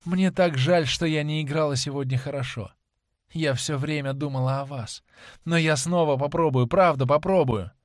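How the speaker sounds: lightly voiced desperate apology; pleading young actress. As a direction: plead gently to be forgiven. Voices Sibyl pleading with Dorian. (слегка сыгранная жалобная мольба)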